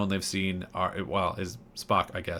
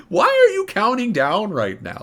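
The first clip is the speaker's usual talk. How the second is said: much higher, louder frustrated shout; exasperated outburst; 12 semitones higher, 8 dB louder than usual. Retold or imitated. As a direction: shout at the pointless countdown. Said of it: "I related to that one moment".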